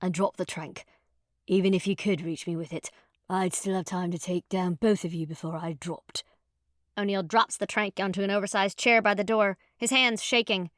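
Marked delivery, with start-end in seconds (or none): 0.0-6.2 grating stranger. Acted. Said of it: "the grating voice says".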